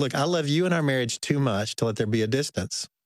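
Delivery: ordinary talk, nothing marked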